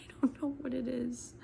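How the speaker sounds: hushed whispered aside; whispering. Real, not acted. Aside while daughter is near.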